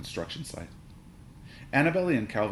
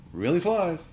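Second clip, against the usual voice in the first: high, loud advertising voice; toy box voice; 9 semitones higher, 5 dB louder, slower than usual. A narrator's reading. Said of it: "said the box".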